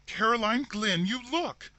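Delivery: high, loud urgent cry; frightened urging. A narrator's reading. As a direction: demand she look, panicking. Terrified sister urging her.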